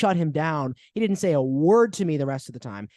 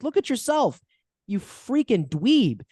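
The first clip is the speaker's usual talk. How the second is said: much higher, scornful, drawn-out jab; mock insult; 7 semitones higher, slower than usual. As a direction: sneer it right at him, slowly. Mocking the masked doctor.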